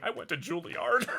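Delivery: high-pitched quote, cracking up with laughter; imitating Alan Tudyk. Friend retelling a behind-the-scenes clip, laughing mimicry. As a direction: mimic the actor's line through laughter. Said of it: "turning around going".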